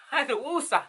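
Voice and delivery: laughing at herself while calming down. Real, not acted. Laughing at herself over needing to calm down. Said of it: "you know, I had to woosah".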